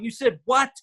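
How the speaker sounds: imitated incredulous question, high; first mock-appalled reaction, rising at the end; Jenna. Wife hearing how he blew it, imitated disbelief. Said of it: "see Jenna going".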